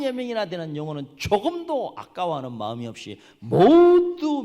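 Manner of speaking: high, loud indignant sermon; impassioned preaching. Real, not acted. Preacher contrasts the vine with perishing souls, loud fervent preaching. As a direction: swell with emphatic, stretched key words.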